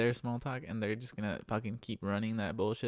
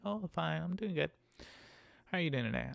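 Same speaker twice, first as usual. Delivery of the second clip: higher, sing-song mock politeness; chirpy passenger; 4 semitones higher than usual. Driver imitating passenger's greeting, chirpy and higher. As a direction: mimic a cheery small-talker.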